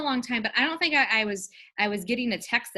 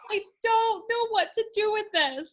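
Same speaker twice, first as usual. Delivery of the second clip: mock bewildered voice; 13 semitones higher than usual. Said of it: "I was like".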